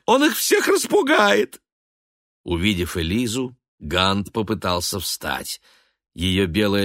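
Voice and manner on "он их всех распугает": high, loud frantic wail; panicked cry. A narrator's reading. Weeping mother wailing about the father.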